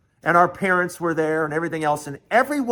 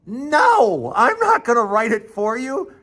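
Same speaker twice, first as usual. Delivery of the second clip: mom's high, emphatic no; retold scandalized mother, pitched up; indignant refusal; 6 semitones higher, 3 dB louder than usual.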